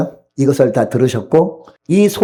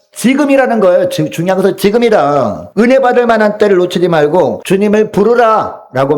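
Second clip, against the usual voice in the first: raised-pitch sermon appeal; emphatic preaching; 6 semitones higher than usual. Real, not acted. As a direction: press the congregation with urgent preaching. Preacher presses the climax. (높은 음조로 힘주어 설교)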